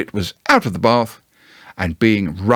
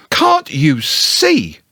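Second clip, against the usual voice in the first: shouting Piglet; 5 semitones higher, much slower than usual. Acted. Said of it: "shouted Piglet".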